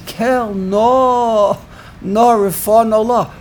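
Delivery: pleading inflection. Shown as a demonstration. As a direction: act out an imploring prayer with stretched words. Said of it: "It's a very different inflection".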